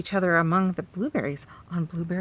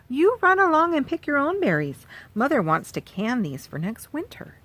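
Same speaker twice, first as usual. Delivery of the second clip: put-on mother shooing child; 6 semitones higher, 3 dB louder than usual. Mother speaks to Sal.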